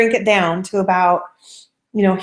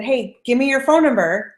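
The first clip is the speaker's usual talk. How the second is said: slow, direct confident request; confident ask; 3 semitones higher than usual. Shown as a demonstration. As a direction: ask straight out, sure of yourself. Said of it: "I'm confident".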